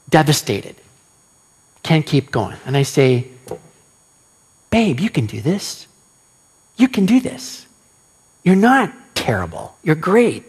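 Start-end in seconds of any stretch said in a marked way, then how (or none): 4.7-10.4 tender encouragement. Shown as a demonstration. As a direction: gently reassure a little girl. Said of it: "say something really tender and sweet".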